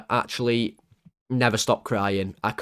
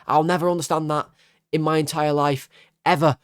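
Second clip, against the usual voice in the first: usual speaking voice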